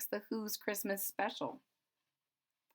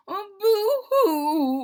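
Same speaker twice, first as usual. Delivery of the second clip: high, slow hammed-up boo-hoo; mock crying; 12 semitones higher, 11 dB louder, much slower than usual. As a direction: mimic sobbing Whos mockingly. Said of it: "will all cry".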